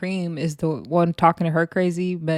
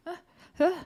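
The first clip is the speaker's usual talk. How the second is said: short mock grunts; tiny grunts imitating someone knocked down; imitated floored groan; 11 semitones higher, 5 dB quieter than usual. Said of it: "She was on the floor like".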